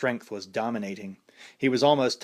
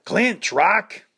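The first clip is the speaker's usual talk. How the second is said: loud, higher call from the corner; urging; 9 semitones higher, 7 dB louder than usual. A narrator's reading. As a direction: urge him to hold on. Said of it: "Paulie urged".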